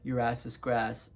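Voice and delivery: low, deadpan mock threat; straight-faced. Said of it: "say that with a straight face".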